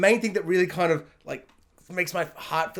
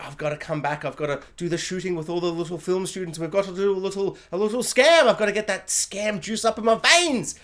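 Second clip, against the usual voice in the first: Kim's scam urge; 2 semitones higher than usual. Retold or imitated. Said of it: "part of her mind was like".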